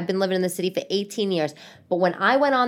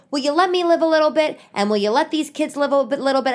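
higher-pitched, pleading irritation; exasperated; 6 semitones higher, 3 dB louder than usual. Retold or imitated. Ex-wife telling him to back off, exasperated. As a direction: retell a fed-up phone argument. Retold quarrel with ex.

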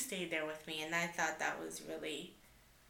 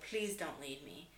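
begging; 4 semitones lower, 7 dB quieter than usual. Retold or imitated. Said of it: "I was begging him".

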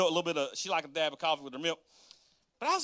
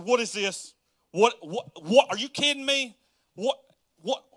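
mock disbelief; 5 semitones higher, 4 dB louder than usual. Acted disbelief at the news.

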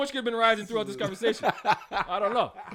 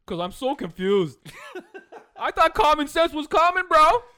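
laughing; 5 semitones higher, 12 dB louder, slower than usual. Real, not acted. Laughing at own confusion.

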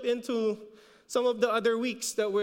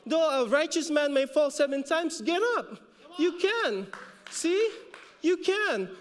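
rising fervor; 4 semitones higher than usual. Real, not acted. Preaching, rising.

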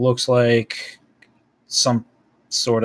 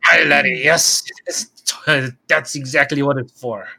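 hint of a stage Irish accent; Irish-style accent; 3 semitones higher than usual. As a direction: play the old smith in a mock Irish lilt. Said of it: "Do I have to speak in that accent?".

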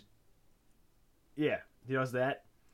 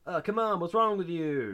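high, louder pleading scold; mock exasperation; 6 semitones higher, 4 dB louder than usual. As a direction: scold him like a fed-up agent. Acting out exasperated agent's scolding.

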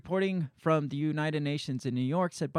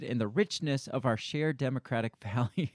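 reading while holding back laughter; stifled giggles; 2 semitones lower than usual. Real, not acted. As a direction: laugh breaks through on values. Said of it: "I can't even read some of the shit he says, but keep a straight face".

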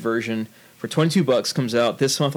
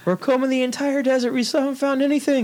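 movie soldier voice; 11 semitones higher than usual. Pretend. Quoting a Spaceballs soldier.

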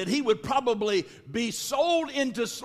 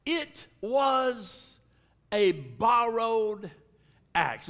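slow, heavy lament with long pauses; retold lament; much slower than usual. Man confessing the axe was borrowed, slow lament. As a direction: draw out each word, sinking at the end. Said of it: "he cried".

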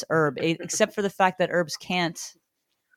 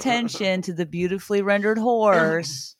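sarcastic mock announcement; 3 semitones higher, 4 dB louder than usual. Mocking the artist's horse drawing.

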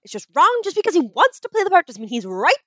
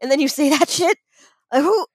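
mock betrayed fan. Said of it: "and I'm like".

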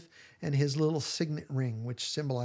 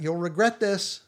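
hollered threat; 3 semitones higher, 4 dB louder than usual. Retold or imitated. Gaius shouting a warning after the departing Matthew, hollered threat. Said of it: "Gaius hollers out".

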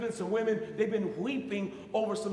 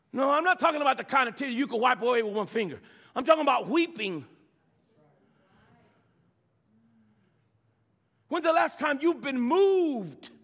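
rising sermon emphasis; 5 dB louder than usual. Real, not acted. Preacher builds to emphatic point.

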